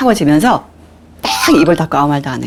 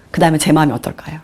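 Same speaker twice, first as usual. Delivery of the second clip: ordinary delivery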